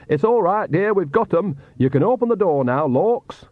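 high, put-on old woman's voice; fake Nanny Ogg voice. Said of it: "Then Nanny Ogg's voice said".

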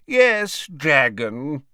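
high character voice easing down, no shouting; matter-of-fact repeat, pitched high at first; conversational. A narrator's reading. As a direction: repeat it casually, in a talking voice. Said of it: "repeated the wizard conversationally".

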